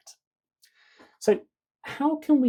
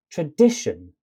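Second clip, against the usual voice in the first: "tradition" with a punched middle syllable; center stressed; 7 dB louder than usual. Shown as a demonstration. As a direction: lean hard on DI in "tradition". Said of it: "stress the center".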